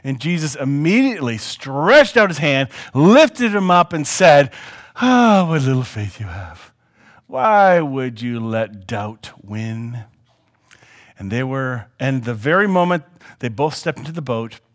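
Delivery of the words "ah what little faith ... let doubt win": sighing, slowing reproach; gentle reproach. Acted. Jesus lifting Peter from the water, gentle reproach. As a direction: start on a sigh, slow right down on the question.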